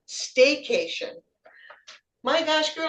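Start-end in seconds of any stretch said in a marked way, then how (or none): 2.2-2.9 higher, amazed my gosh; a sudden pitch jump of surprise; surprised exclamation. Real, not acted. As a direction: react with genuine amazement. Surprised at the staycation answer.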